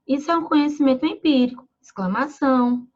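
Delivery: "Isso é um conhecimento empírico" read with the word "exclamação" spoken aloud at the end; reading punctuation aloud. Shown as a demonstration. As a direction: read the sentence out mechanically, speaking the name of the punctuation mark. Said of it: "Não é assim que lemos um texto". (lendo o sinal "exclamação" em voz alta)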